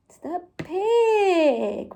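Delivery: slow, stretched-out announcement; drawn-out reveal. Pretend. Presenter confirming the children's guess, drawn-out reveal. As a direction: stretch the animal's name.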